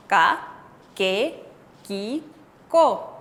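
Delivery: "ka, ke, ki, ko" as separate, hard tense-k syllables; consonante tensa. Shown as a demonstration. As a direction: say "ka, ke, ki, ko" one by one with a tight k. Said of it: "Así tenemos que pronunciar". ("ka, ke, ki, ko" sílaba por sílaba, con k tensa)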